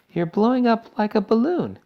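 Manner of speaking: high, loud wail of horror; screech. A narrator's reading. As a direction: screech it at your daughter. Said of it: "screeched Missus Beauregard".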